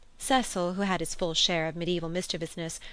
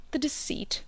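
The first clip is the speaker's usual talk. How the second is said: hushed confiding whisper; 9 semitones higher than usual. A narrator's reading. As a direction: lean in and breathe the word. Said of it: "whispered aside".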